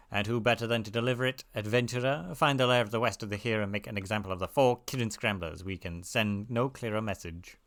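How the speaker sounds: stern soldier Rosalind. Acted. Soldier sending an adventurer after egg thieves, quiet and stern. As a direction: give orders with quiet, restrained severity. Reads Rosalind's quest dialogue.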